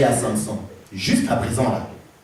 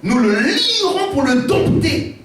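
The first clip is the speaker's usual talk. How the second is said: Philistins complotant; 5 semitones higher, slower than usual. Acted. Philistins parlent à Dalila.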